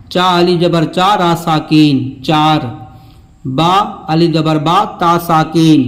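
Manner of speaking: measured letter-by-letter recitation; teacher's spelling drill with held long vowels; spelling aloud. Shown as a demonstration. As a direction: spell it out for learners, then land on the word. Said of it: "ہجے کرتے ہوئے پڑھتے ہیں".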